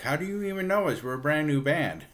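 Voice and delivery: high, quick mock disbelief; retold bafflement. A band to another band who recognize them, mock baffled. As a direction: imitate a band baffled at being recognized. Unknown band reacts to being recognized.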